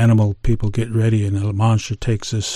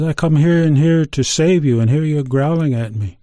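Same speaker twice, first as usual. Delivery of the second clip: higher, indignant scolding; indignant Coyote; 5 semitones higher, 3 dB louder than usual. Acted. Coyote scolds Grizzly Bear for growling at him, indignant.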